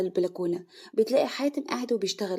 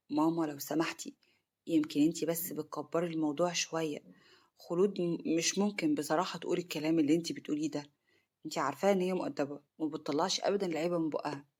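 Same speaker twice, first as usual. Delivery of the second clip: low, hushed protest from an embarrassed son; 5 semitones lower, 7 dB quieter than usual. A narrator's reading. Son gently defending his wife to his mother, embarrassed. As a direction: speak softly and low, ill at ease. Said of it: "وباين عليه الإحراج".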